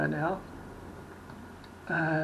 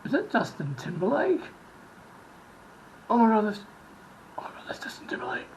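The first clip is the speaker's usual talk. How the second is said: starstruck fan; 4 semitones higher, faster than usual. Retold or imitated. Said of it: "Or, or".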